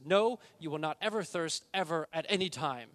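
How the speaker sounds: loud full-voiced rendering; loud emphatic preaching. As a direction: preach the whole line at full force. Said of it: "It's very emphatic".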